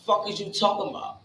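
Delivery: quick, scoffing "Fuck is you talking about?" thrown back fast; dismissive retort. Retold or imitated. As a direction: brush them off fast, like they're crazy. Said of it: "so I felt like".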